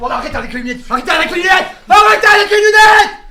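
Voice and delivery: angry, loud yelling, pitched high.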